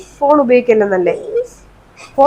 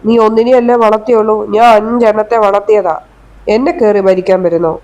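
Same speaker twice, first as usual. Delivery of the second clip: louder, sharp scolding; 3 dB louder than usual. Acted. Mother-in-law scolding daughter-in-law over crying baby, louder and sharp. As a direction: tell her off for making the baby cry.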